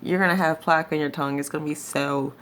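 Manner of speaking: talking through clenched teeth; wired jaw. Real, not acted. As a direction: speak without opening the jaw. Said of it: "'cause I can open my mouth now".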